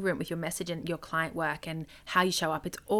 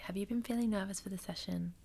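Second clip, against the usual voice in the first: soft, softer gentle check-in with a client; gentle question; 6 dB quieter than usual. Shown as a demonstration. Coach modelling a gentle question to a nervous client, soft. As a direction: ask it softly, no pressure. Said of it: "you can really gently say".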